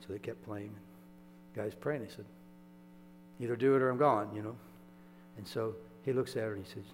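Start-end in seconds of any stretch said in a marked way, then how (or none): 3.4-4.3 louder, pleading demand at God; a man at the end of his rope, half-shouted; desperate ultimatum. Retold or imitated. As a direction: give God a final warning.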